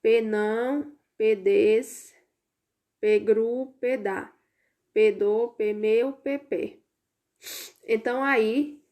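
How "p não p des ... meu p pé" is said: "P não, P des, P gru, P dá" each syllable led by a spoken P, one at a time; língua do P. Shown as a demonstration. Teacher shows pupils the P game, syllable by syllable. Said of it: "tirando o P e o E antes de cada sílaba".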